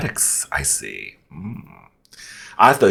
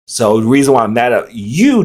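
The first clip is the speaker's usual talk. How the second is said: ordinary delivery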